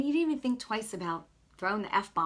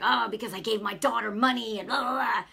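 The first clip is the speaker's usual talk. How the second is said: imitated rough guy, louder, grumbling; 5 dB louder than usual. Stranger griping about his daughter, mock rough New Yorker. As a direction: mimic a worked-up tough guy's complaint. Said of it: "he was kind of rough".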